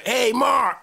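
high, animated mock greeting; excited phone greeting. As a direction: imitate an excited friend on the phone. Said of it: "he'll go".

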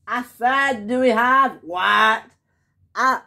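high, insistent call. Acted. Worker repeating the question to the boss, calling out. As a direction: holler it over to someone far off.

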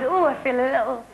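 breathy elegant starlet; a hint of Audrey Hepburn. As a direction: flutter like a film star. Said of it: "It is like she's".

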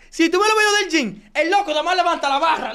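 fuerte y burlón; riéndose del otro a gritos; burla a gritos. Real, not acted. (burla gritada)

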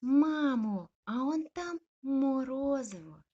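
high, loud happy shout; joyful yelp. Acted. Puppy spotting ice cream, joyful yelp. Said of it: "радісно дзявкнув малюк".

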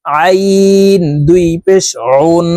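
আইন pressed from the middle of the throat, drawn out slowly; throat letter ayn. Shown as a demonstration. Teacher drills viewers on আইন with throat pressure. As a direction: push আইন from mid-throat. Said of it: "হলকের মধ্যখান থেকে চাপ দিয়ে পড়তে হবে".

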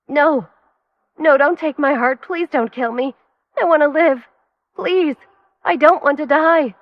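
high, loud pleading screams; terrified screaming. A narrator's reading. Lynn to her attackers, screaming in terror. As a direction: scream for your life. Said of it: "began to scream at the top of her lungs".

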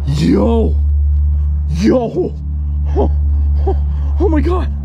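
high, loud, thrilled cries; excited shouting. Real, not acted. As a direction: yell in disbelief at the find. Finding a cross in a tree.

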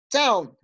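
"town" said slowly, drawn out as one syllable; careful, stretched "town" for the class to copy; pronunciation model. Shown as a demonstration. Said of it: "Las voy a pronunciar yo".

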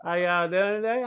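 put-on Southern accent. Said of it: "couldn't understand that southern accent".

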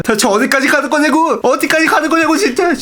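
high-pitched, climbing disbelief; worked-up, marvelling rant; incredulous exclamation. Real, not acted. Marvels at overpowered bows.

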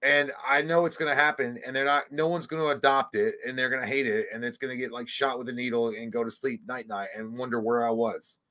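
put-on sorrow trailing off; mock sad. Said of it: "See how sad I made that?".

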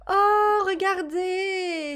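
loud high oh, then a slow drawn-out look; drawn-out delighted exclamation. Real, not acted. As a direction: call everyone to look, thrilled. Sees grandma with baby.

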